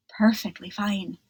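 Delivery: dry little whisper; hushed fish character voice; whispered reply. Acted. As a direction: whisper it, calm and contented. Mister Curtis replies.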